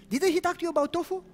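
high, fast mock question; preacher joking about tofu with the girl; playful teasing. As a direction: tease with a rising question.

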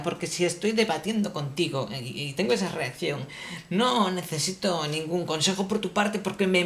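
ordinary talk, nothing marked

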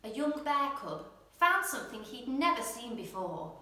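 gentle storyteller reading a picture book aloud; bedtime story narration. A narrator's reading. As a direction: read it like a bedtime story for little ones.

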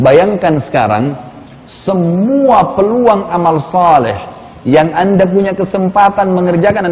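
solemnly urging, drawing out each phrase; solemn exhortation. Retold or imitated. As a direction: stretch the words out to make him imagine it. Urging man to imagine his death.

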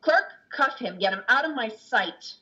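stern order. Acted. Judge orders the priest removed.

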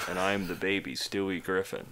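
put-on flat, quiet deadpan baby voice; mock Stewie in monotone; Stewie Griffin monotone. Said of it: "really bad Family Guy impressions".

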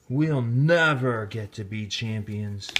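slow, sighing defeat. Acted. Maria sighing to her teammates. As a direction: let the hope drain out slowly.

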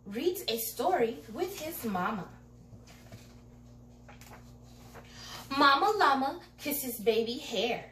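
bright storybook read-aloud; reading to children. A narrator's reading. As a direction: read it like bedtime story time. Reading picture book to children.

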